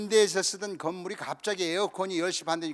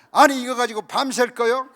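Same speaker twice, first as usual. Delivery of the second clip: higher, louder impatient snap, half laughing; mock angry outburst; 5 semitones higher, 10 dB louder than usual. Gyeongsang teammate losing patience with the group, mock angry and loud. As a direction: burst out like a hot-tempered man fed up with waiting. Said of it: "성질을 막 확 내면서".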